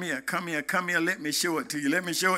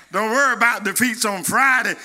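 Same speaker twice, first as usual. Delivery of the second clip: quicker, pressing restatement of "worry"; faster repeat. Shown as a demonstration. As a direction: drive it home again, fast. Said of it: "Let me say it one more time".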